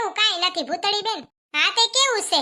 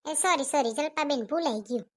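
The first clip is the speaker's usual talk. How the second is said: softer, quick whispered sorry; hushed apology; 4 semitones lower, 5 dB quieter than usual. Acted. Scolded neighbour apologises to Jalpaben, hushed and sheepish. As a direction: apologise under her breath. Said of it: "હરવે બોલો".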